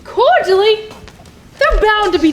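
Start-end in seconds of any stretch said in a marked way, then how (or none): 0.0-0.9 rising disbelieving echo; incredulous. Acted. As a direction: question the word in disbelief.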